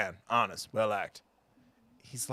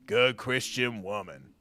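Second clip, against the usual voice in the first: Good Christian woman drawn out slowly, each word weighed; slower, weighty; slower than usual. Shown as a demonstration. Slowly remembering his late wife Bess at the bar. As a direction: let "Good" sink slow and heavy.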